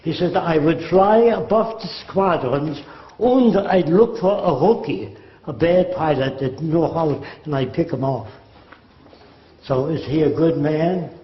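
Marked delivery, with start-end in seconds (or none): 0.4-8.3 put-on Ernst Udet's German accent. Fighter ace explaining his tactic, light German accent. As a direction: tell it coolly in a mild German accent. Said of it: "That's the way he spoke".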